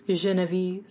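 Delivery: whispered Genevieve, savoring it. Real, not acted. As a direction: breathe the name out admiringly. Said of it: "whispers the name".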